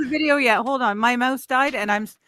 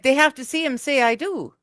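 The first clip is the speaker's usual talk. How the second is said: a slip into Minnesotan vowels; a hint of Minnesotan accent; 3 semitones higher than usual. Real, not acted. Co-host explaining the wedding vows, Minnesotan accent slipping out. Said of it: "I love your accent came in".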